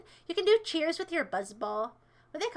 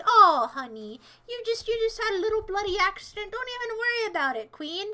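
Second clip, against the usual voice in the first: lightly acted consoling friend, pitched up; mock sympathy; 5 semitones higher, 4 dB louder than usual. Bystander consoling someone after an accident, mock sympathy. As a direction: gush comfort like a doting girlfriend. Voices sympathetic people in imagined scene.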